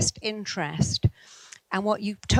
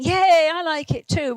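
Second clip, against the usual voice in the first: put-on high, loud, slow little girl's yay; child's cheer; 9 semitones higher, 6 dB louder than usual. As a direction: squeal it like a delighted child. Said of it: "she was going".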